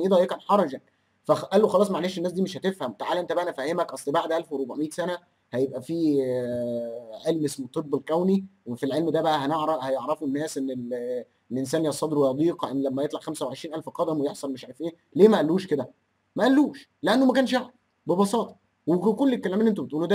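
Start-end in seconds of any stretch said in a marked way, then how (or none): 1.7-15.0 softer, hushed mock explanation; mock Ibn Abbas confiding in a softer voice; mock confiding answer. 16.4-18.6 high, pointed retort; sarcastic retort. Real, not acted. Sarcastic emphatic answer.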